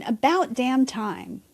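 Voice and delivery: slow, drawn-out acted relief; mildly exasperated relief, taken slowly; relieved. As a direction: stretch it out as if finally relieved. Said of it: "You breathe a sigh of relief and say".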